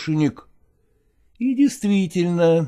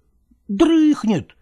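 affirmative; 9 semitones higher, 3 dB louder, much slower than usual. Acted. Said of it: "утвердительно ответил Иван".

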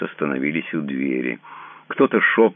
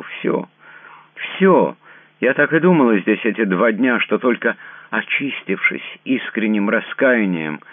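much higher and louder, building to a cry on Всё; rising fervent resolve; 7 semitones higher, 5 dB louder than usual. A narrator's reading. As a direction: she begs him to repent with her. She insists on confessing.

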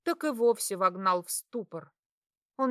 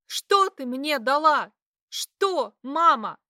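high, loud pile-up of accusations; bitter accusing cries; 5 semitones higher, 6 dB louder than usual. Acted. Daughter hurling accusations at her mother. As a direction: hurl every grievance at her.

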